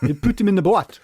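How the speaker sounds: high-pitched, exaggerated Shetland accent; crazy Shetland accent. Repeating the TV character's line, crazy Shetland accent. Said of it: "it's a crazy accent".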